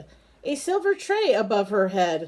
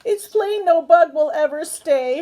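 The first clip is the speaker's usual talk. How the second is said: sad lament; 7 semitones higher, 5 dB louder than usual. Acted. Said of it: "sadly sighed".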